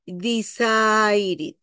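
drawn-out "decided" ending in "id". Shown as a demonstration. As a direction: stretch "decided", last vowel an I. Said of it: "la E cambia por sonido de I".

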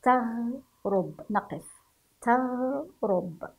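تغرب with the غ held, no vowel after; slow demo. Shown as a demonstration. Teacher to pupils, modelling تغرب slowly. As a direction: pause on the silent غ in تغرب. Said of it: "سننطقه مع السكون بهذا الشكل".

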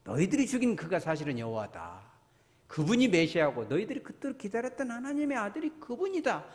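Peter's sermon retold with force; imitated preaching. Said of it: "설교를 하죠". (베드로의 설교를 흉내 낸 선포)

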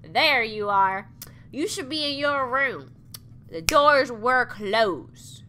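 slow put-on unknown accent, stressing There. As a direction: drag the words in an odd unplaced accent. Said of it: "I don't know what kind of accent this is".

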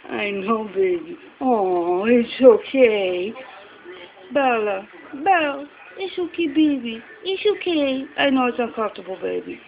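soothing a scared dog. Real, not acted.

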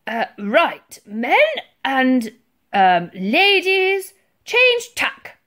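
put-on loud old sailor, halting then rising; booming. A narrator's reading. Old sailor addresses men and ladies, booming. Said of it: "boomed the old sailor".

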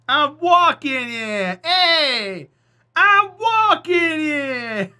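loud, high, drawn-out mock Jersey yell; exaggerated Jersey shout, stretching every word; New Jersey accent. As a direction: holler it slowly in a hammed-up New Jersey accent. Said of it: "what I would say if I was in Jersey".

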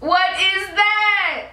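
high, slow shocked squeal. Real, not acted. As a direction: squeal it out in disbelief. Shocked at own eyebrows.

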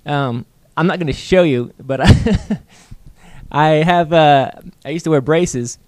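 slightly slurred speech from a retainer; slurring. Real, not acted. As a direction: talk around a loose retainer wire. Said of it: "kinda slurring my speech".

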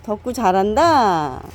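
slow, drawn-out praise for the dog. Real, not acted. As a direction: praise him slowly and fondly.

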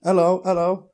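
high, loud attempt at a Polish accent; bad Polish accent. Polish deli woman to stung bin man, botched Polish accent. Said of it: "I can't do a Polish accent".

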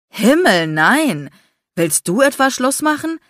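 loud, high, alarmed; alarmed exclamation. A narrator's reading. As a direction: cry it out in alarm, then ask back. Boyfriend alarmed at breakup question. (lauter, erschrockener Ausruf)

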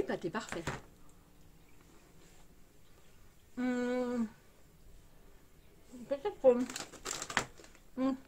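chewing while talking; talking between bites; mouth full. Real, not acted. Seen 0: Bites the pâté pastry at 0.5, 5.4, 10.3 and chews between bites.

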